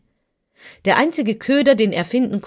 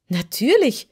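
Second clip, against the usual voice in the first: put-on quick, slightly raised girl's answer; prompt reply; 5 semitones higher, 4 dB louder than usual. Dorothy answers the boy promptly, lightly voiced. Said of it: "erwiderte Dorothy prompt".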